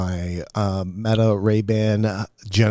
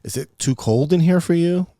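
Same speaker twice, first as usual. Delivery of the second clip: caring question; 8 semitones higher, 5 dB louder than usual. Retold or imitated. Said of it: "like that".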